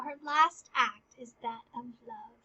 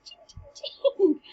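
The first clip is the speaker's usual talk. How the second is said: sword clang noise; 6 semitones higher, 4 dB louder, slower than usual. Retold or imitated. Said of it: "This noise it makes".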